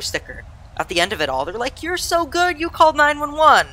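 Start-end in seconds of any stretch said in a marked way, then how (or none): 1.8-3.7 higher-pitched, mildly gushing imitation of praise. Firefighters praising a kid who called for help, mock gushing.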